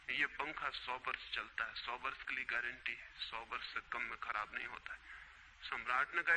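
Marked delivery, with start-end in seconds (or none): 0.1-5.0 lower, softer voice of an acted seller; calm assurance. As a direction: quietly vouch for your goods, as in a retold tale. Seller calmly assures the doubting emperor. (विक्रेता का धीमे स्वर में शांत भरोसा)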